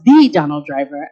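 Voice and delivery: "the" said as an emphatic THEE; stress on THE. Real, not acted. Guest establishing he was the real one, stress on THE. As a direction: lean on "the" before Donald Driver. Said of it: "I think it needs to be".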